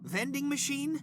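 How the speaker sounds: "Vending machine?" jumps high in disbelief; incredulous. Acted. Boss scoffs at the assistant's vending machine offer, high and incredulous.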